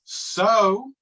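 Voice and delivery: one word at a time, halting; each word dropped alone, long gaps; staccato. Acted. Word at a Time story game.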